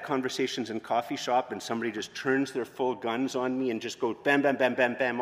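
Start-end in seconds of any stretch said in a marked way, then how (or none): 4.1-5.2 quick burst of bams; mock rapid-fire points. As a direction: imitate someone unloading quick arguments like gunfire. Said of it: "all these quick points".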